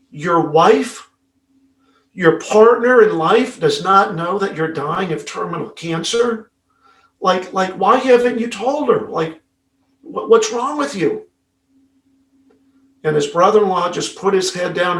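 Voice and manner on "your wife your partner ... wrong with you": incredulous. Retold or imitated. Matt confronting brother-in-law, incredulous.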